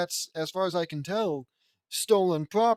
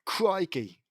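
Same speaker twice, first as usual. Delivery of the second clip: British attempt sliding into Australian; hammy Australian-sounding slip; accidental Australian accent; 2 semitones higher than usual. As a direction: exclaim in a mock Australian accent. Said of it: "that's Australian".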